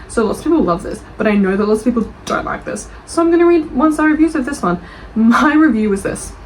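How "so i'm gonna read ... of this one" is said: excited announcement. Real, not acted. Announcing one-star review reading.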